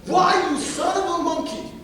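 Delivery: high insult in a put-on voice; hammed-up name-calling; mock name-calling. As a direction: sneer a silly insult. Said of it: "name-calling and they'll put personal attacks".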